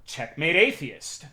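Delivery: slow, dry mock triumph; mock solemn verdict; deadpan sarcasm. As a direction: drawl it out as a sarcastic punchline. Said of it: "sarcastic punchline".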